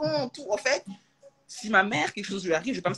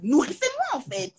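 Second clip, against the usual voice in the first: higher, mock whiny baby begging; a light imitation of a baby asking to be fed; 7 semitones higher than usual. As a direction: play the helpless baby. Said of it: "je suis un bébé".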